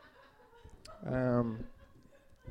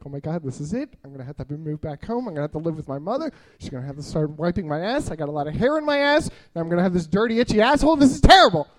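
panicking; 4 semitones lower, faster than usual. Retold or imitated. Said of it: "I'm panicking".

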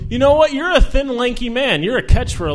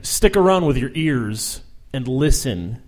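slow, solemn beat poet recital; 6 semitones lower, 3 dB quieter, slower than usual. Pretend. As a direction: intone it like a pretentious poet. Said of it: "I sound like a beat poet".

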